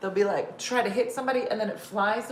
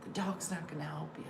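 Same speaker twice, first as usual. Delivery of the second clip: bored fake intruder; 10 dB quieter than usual. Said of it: "would be like".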